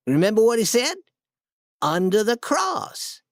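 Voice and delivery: put-on high, hushed-eager boy's voice, slowing at the end; high boyish excitement, slowing on the reveal; excited boy Tom. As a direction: point out the secret mark in awe. Tom spots the cross in cave.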